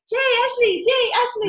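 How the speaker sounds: high-pitched mock Asian accent; excited high shout in a hammed-up Asian accent; horrible Asian accent. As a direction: call out names in a badly faked Asian accent. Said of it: "That's my horrible Asian accent".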